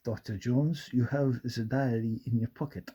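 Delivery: lightly voiced movie villain; a hint of an interrogating Nazi officer. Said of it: "the Nazis walking in and going".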